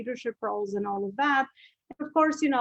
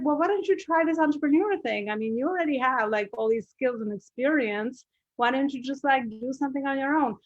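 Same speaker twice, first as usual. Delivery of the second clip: higher, retold husband's encouraging nudge; husband voiced; 4 semitones higher than usual. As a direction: lightly play the husband urging her on. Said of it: "So he said".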